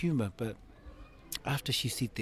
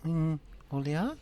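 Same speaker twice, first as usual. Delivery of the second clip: mother's voice; 7 semitones higher, 3 dB louder than usual. Retold or imitated. Mother's reply voiced in story.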